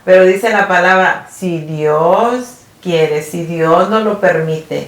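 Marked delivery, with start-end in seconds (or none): 1.3-4.9 slow, earnest "Si Dios quiere", each word weighed; reverent. Retold or imitated. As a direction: say "Si Dios quiere" slowly, as a sincere prayer. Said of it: "uno a veces lo toma por una cosa casual". (lento y reverente, "Si Dios quiere" con sinceridad)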